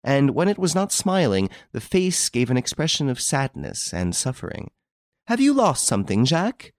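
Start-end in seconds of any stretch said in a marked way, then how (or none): 5.3-6.7 high, raised call across the beach. A narrator's reading. Wife calls out to her husband stooping on the beach, high call. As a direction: call down to him on the shingle. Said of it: "she called out to her husband".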